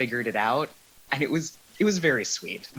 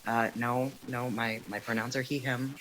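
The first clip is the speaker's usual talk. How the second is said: softened, halting aside; hesitant self-correction; 6 dB quieter than usual. Retold or imitated. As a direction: correct someone timidly, keeping it small. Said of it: "without having to be like".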